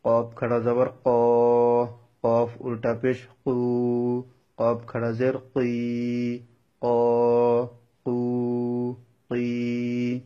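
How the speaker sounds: heavy, emphatic Q in ক, কু, কি; thick Arabic qaf. Shown as a demonstration. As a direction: say ক, কু, কি as thick qaf with long vowels. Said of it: "এটাও মোটা করে উচ্চারণ".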